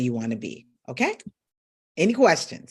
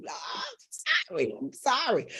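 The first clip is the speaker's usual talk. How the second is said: mock whimper; 4 semitones higher, 8 dB quieter than usual. Joking she is old, mock apology.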